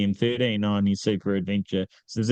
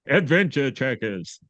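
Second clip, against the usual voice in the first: hyped announcer call, a bit higher; fighting game announcer; 4 semitones higher than usual. Shown as a demonstration. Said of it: "You gotta clear the throat first".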